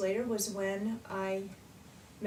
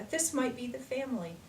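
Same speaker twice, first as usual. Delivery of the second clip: excited realisation, slightly higher pitch; retold excitement; 4 semitones higher than usual. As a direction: quote your own excited discovery, lightly lifted. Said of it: "I was so excited".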